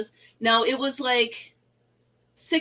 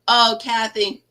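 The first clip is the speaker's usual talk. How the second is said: ordinary talk, nothing marked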